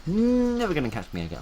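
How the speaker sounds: high, loud cry of escape; gleeful taunt. Real, not acted. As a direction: call it out high, holding the first sound. Taunting while fleeing in game.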